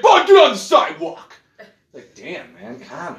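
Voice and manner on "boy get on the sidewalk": hint of a yelling porch owner; mock angry homeowner. Mock homeowner yelling at someone cutting through his yard. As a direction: bark it like a cranky homeowner. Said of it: "they're on the front porch, like".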